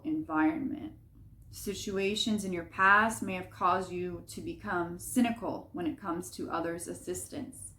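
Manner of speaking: clear, projected read-aloud with deliberate phrasing; reading a message aloud. Acted. Reader passes on the collective's message about the earth, read aloud. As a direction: deliver it as a written message to the listener.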